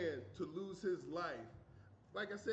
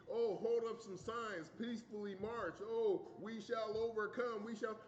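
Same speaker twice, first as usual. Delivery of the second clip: mock peaceful voice; 3 semitones higher than usual. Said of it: "You want us to be".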